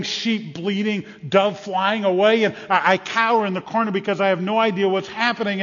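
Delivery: agitated fear. Acted. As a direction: tell it as if surrounded by chaos. Frightened man cowers amid chaos.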